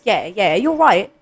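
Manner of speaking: quick, casual put-on British reply; British accent. Shown as a demonstration. Friend playing along with the British bit, British accent. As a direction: answer breezily in a British accent. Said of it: "I'll do a British one".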